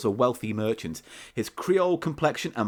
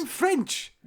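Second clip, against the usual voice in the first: much higher put-on voice, a deliberately terrible French accent; mocking bad French accent. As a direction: tease him with a lousy fake French accent. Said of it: "Just 'cause I can't do accents".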